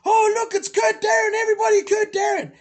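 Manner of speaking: loud, high announcement through a megaphone. Retold or imitated. Pranking his friend by announcing him to fans, loud megaphone shout. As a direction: blast it out to draw the crowd. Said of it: "that blue megaphone".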